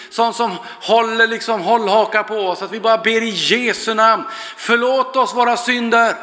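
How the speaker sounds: rising, earnest praying voice; intercessory prayer, pressing on; fervent prayer. Acted. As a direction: pray it over the room, building. Opening prayer over the congregation.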